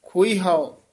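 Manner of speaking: ਖੋਈ ਹੋ run together as one unit; ਖੋਈ ਹੋ joined, not split; joined pronunciation. Shown as a demonstration. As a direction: say ਖੋਈ ਹੋ in one breath, no break. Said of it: "ਇਕੱਠਾ ਬੋਲਣਾ ਹੈ".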